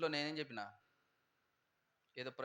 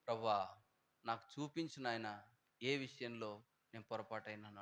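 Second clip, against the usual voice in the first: humble prayer; 4 semitones lower, 4 dB quieter than usual. Retold or imitated. Voicing a confession prayer to God.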